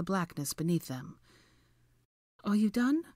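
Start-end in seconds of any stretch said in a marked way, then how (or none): 2.4-3.0 awkward. A narrator's reading. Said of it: "Hermione asked awkwardly".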